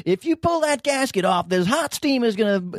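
high, slow urgent warning; stern warning voice. Retold or imitated. Quoting Carter warning.

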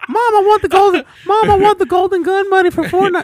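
put-on high, loud begging child; whiny kid voice. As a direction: beg like a spoiled kid.

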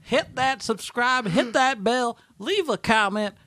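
a hint of the goofy promo voice; lightly silly voice. Host keeps his goofy subscribe plea going, lightly voiced. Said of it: "I don't know why I'm talking like this".

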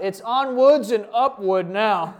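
reading it through laughter; laughing. Retold or imitated. Rereading text, laughing.

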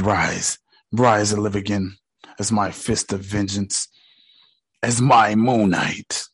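a lightly voiced deep god, commanding; Khonshu's command. God reviving Stephen, low and solemn.

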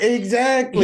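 imitated kid's interjection. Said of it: "He came up like".

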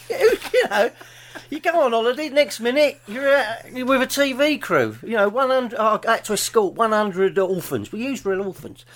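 lightly put-on dubbed actor voice; a hint of a dubbed-over film hero. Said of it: "That's my dub voice".

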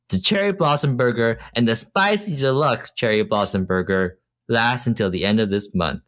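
bad ad read. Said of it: "You didn't do this ad justice".

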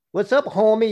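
put-on Chicano street accent greeting; playful cholo accent. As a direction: greet like a cholo from the barrio, mock tough. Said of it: "that's a good little cholo accent".

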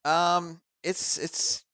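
distant, hollow room sound; echoing tunnel. Real, not acted. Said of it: "you sound like you're in a tunnel".

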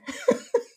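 short, high, loud whimpering burst; mock sob. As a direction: burst into exaggerated crying. Acting out breakdown before partner.

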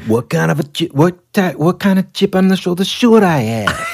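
high, loud, indignant blast of an Italian owner; full-throttle outburst. Retold or imitated. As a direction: fire it straight back at him, offended, full throttle. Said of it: "goes full throttle out of the gate".

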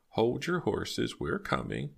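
high, slow, drawn-out call; singsong call, pitched high and stretched; calling to the door. Acted. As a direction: call out to an impatient knocker without raising volume. Calling out to impatient knocker.

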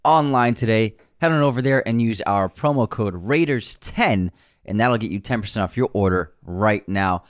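steady, polished podcast ad delivery; sponsor ad read. Acted. Host plugs movie poster sponsor, ad read. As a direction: sell it cleanly to the listeners.

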